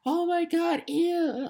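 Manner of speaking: imitating disgusted parents watching two men kiss; mock disgust. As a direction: mimic a squeamish homophobe. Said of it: "just acting homophobe".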